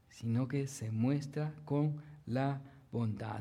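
normal talking voice

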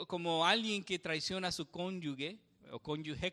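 ordinary talk

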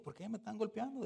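pregunta indignada, un poco más aguda y fuerte; indignación imitada. Retold or imitated. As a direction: reclama el golpe con enojo contenido. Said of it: "Pablo se enojó". (Pablo reclama al sumo sacerdote, indignado)

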